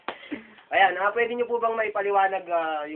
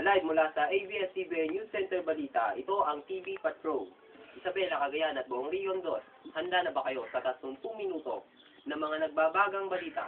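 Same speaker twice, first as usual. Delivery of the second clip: news anchor; 3 dB quieter than usual. Acted. Mock TV Patrol news intro.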